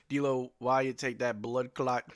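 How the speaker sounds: slow mock Jamaican accent, lightly done. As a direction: drawl it out in a playful Jamaican accent. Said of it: "was my Jamaican accent good".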